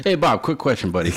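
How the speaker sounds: high-pitched, jokey buddy greeting; mock-casual approach. Guest telling of awkward boxers request, host jumps in, mock-casual. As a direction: pitch it up like sidling over with an awkward favor.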